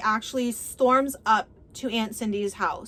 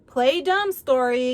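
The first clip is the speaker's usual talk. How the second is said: scornful accusation; 4 dB louder than usual. Acted. Acted quarrel, Cole mocks her denial.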